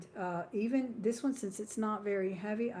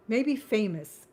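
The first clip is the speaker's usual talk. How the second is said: laughs through it, louder and slow; laughing; 2 semitones higher, 9 dB louder, slower than usual. Real, not acted. Seller laughing off her own word mix-up, laughing. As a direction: giggle the words out as a fix.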